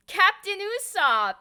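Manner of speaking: high, loud, slowed fan call of a name; excited shout. Retold or imitated. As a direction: call out to him like a thrilled fan. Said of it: "and Chris was like".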